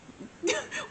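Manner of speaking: high-pitched giggle; laugh. Real, not acted. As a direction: let out a high little laugh. Laughs at her own predicament.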